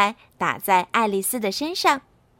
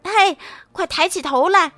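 clamoring; 3 semitones higher, 4 dB louder than usual. Acted. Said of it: "外面又嚷嚷起来了".

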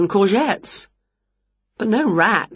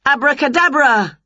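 higher, louder magic incantation; spell casting; 8 semitones higher, 4 dB louder than usual. A narrator's reading. Winnie waves her wand over the football pitch, with a higher, louder incantation. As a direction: cast it with a flourish.

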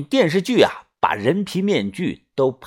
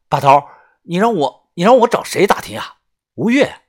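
puzzled Yunfeng; 4 semitones higher than usual. Acted. Young narrator answers boss, puzzled.

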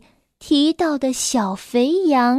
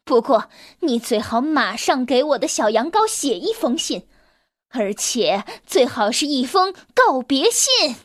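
furious. Acted. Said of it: "火冒三丈地说道".

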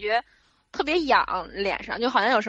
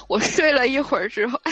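ordinary delivery

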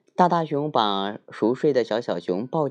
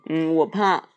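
little bear voice; 7 semitones higher, 4 dB louder than usual. Acted.

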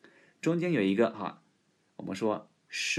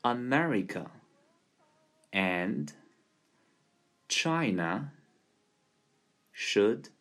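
word by word, long pauses between; America and China... spaced out slowly for learners; slow demo; much slower than usual. Shown as a demonstration. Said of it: "我来先来慢速的展示一遍".

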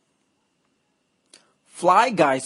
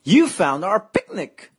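excited cry; 6 semitones higher than usual. Acted. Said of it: "cried Buzz".

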